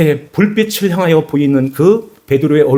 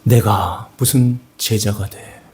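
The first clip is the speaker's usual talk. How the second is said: self-reproach; 4 semitones lower, slower than usual. Acted. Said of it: "마음까지 와르르 무너지는".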